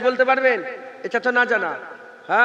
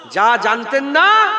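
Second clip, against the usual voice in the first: যা জানতেন না drawn out slowly and louder; slow loud call; 2 semitones higher, 4 dB louder, much slower than usual. Shown as a demonstration. Preacher leading the crowd to repeat it, slow and loud. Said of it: "একবার জোরে বলেন".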